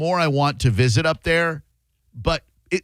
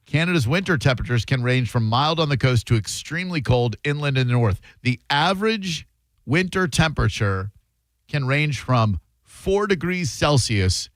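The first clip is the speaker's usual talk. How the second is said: reading out. Shown as a demonstration. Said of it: "how cold does it get".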